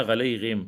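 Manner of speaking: غلیہم with a ghain instead of ain; mispronunciation demo. Shown as a demonstration. Teacher mimics the common error, ghain for ain. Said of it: "لوگ پڑھتے ہیں".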